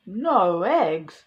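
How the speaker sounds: loud dismayed cry of no eggs; shout. Acted. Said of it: "cried the Farmer Brown".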